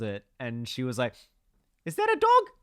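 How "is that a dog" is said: put-on high, loud South African old woman; South African accent. Retelling Trevor Noah's story, high South African accent. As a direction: blind great-grandmother sniffing, South African accent. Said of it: "You got a great South African accent".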